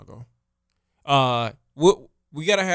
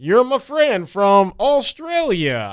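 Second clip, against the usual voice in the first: Todd voice; 5 semitones higher, 4 dB louder than usual. Acted. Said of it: "I'm Todd".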